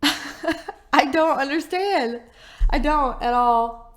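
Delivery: slow, drawn-out, laughing disbelief; mock disbelief. Real, not acted. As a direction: drag it out in laughing bafflement. Repeats slowly, laughing, in mock disbelief.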